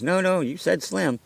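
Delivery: high, slow landlord contradiction; imitating insistent landlord. Landlord insists, retold argument.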